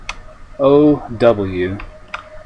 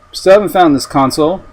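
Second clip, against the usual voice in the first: exasperated; 7 semitones higher, 8 dB louder than usual. Real, not acted. Frustrated searching for console.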